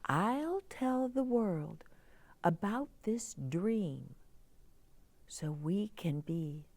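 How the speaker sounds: put-on young girl character. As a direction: play the worried little girl asking for help. Girl thanks the Moon.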